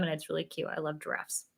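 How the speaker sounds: talking with the hiccups; hiccuping. Real, not acted. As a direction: speak through hiccups. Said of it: "Ooh, I'm hiccuping".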